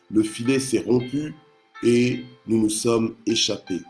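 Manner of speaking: emphatic public Bible reading; scripture reading. Acted. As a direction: proclaim the verses to the congregation, pausing between phrases. Reads the psalm aloud.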